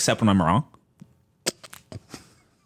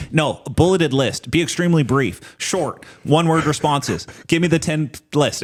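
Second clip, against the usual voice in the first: bossy chatbot commands; 6 semitones higher than usual. Retold or imitated. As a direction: dictate orders to a wordy bot. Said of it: "I have to explicitly say".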